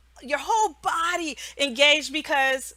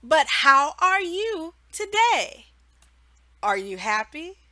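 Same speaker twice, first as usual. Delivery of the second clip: much higher "Ah, very good", then slow question; cheery teacher redirect; 6 semitones higher than usual. Shown as a demonstration. Teacher redirecting the child back to the question, bright. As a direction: praise then gently re-ask. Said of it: "You say".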